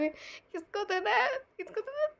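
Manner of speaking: rising high squeal of fondness; gushing over cuteness. Retold or imitated. Wife gushing over how cute her husband looks, squealing. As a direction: squeeze the words like pinching a cheek. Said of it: "आपका दिल करता होगा".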